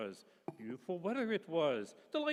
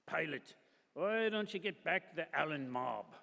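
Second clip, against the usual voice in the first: hint of cockney. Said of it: "cockney voice".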